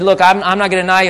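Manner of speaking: pumped-up Peter. Acted. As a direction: puff yourself up and insist fast. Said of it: "pumped himself up here".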